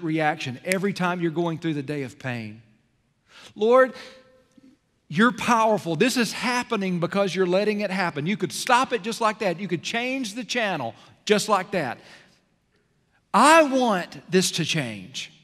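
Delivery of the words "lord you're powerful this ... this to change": louder, higher, pleading declaration; fervent prayer. Shown as a demonstration. Preacher praying to God in pain, fervent and loud. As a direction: pray it out with force.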